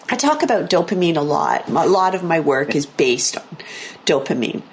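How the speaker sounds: losing voice, hoarse and rough. Real, not acted. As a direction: talk through a hoarse throat. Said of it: "I seem to be losing my voice".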